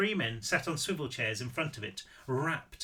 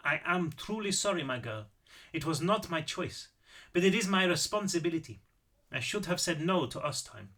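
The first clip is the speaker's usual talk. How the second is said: lightly voiced old Austrian man, apologetic; a touch of regret in an Austrian accent; 2 semitones higher than usual. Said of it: "Apparently I am doing the accent".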